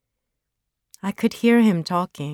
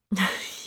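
little laugh; 2 semitones higher, 5 dB quieter than usual. Acted. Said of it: "laughing a little".

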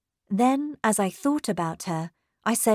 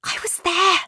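higher, emphatic assertion; urgent insistence; 11 semitones higher, 4 dB louder than usual. A narrator's reading. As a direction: insist with agitation that it's true. Excited account, governess insists to housekeeper.

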